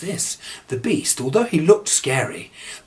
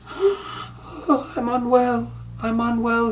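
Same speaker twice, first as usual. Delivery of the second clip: put-on much higher, feeble sick old man; ill father; 12 semitones higher, much slower than usual. A narrator's reading. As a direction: moan like a frail sick father. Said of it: "he was saying".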